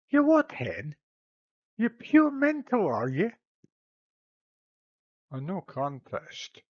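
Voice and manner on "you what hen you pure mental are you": sharp Glasgow snap, one word pitched high; a Glasgow goddess, scoffing; Glasgow accent. Acted.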